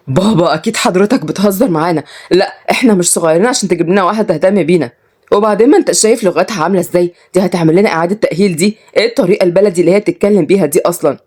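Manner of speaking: mildly panicked protest, quickening; breaking down. Acted. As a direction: plead with dad in fast disbelief. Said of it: "أما كريم انهار". (انهيار خفيف واحتجاج)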